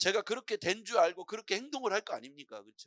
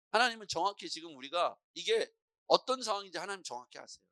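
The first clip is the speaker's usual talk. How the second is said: normal talking voice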